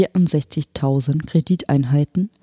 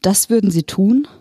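aghast, higher and a little louder; horrified; 6 semitones higher, 3 dB louder than usual. A narrator's reading. Woman horrified at the hologram's cold offer, aghast. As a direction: recoil in shock at the offer. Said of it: "fragte die Frau entsetzt".

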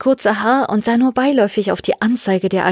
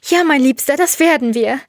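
higher-pitched, emotional promise; loving reassurance; 6 semitones higher than usual. Acted. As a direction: promise it to a beloved. Jelena answers her beloved.

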